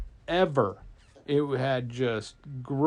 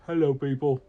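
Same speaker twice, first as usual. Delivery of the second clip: understated, awkward hello; hesitant dragon greeting; 4 dB louder than usual. Acted. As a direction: greet the crowd modestly in character. Dragon's first, weak greeting.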